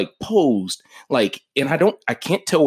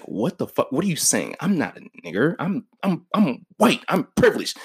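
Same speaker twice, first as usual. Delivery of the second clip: rising higher into incredulous protest; a lightly voiced Nazi thrown off balance; mock outrage climbing higher toward the end; shocked disbelief; 6 semitones higher, 3 dB quieter than usual. Nazi shocked by inmate's words.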